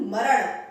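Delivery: teacher giving the right form; correct retroflex maran. Shown as a demonstration. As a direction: curl back for ण in मरण. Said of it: "मरण नहीं".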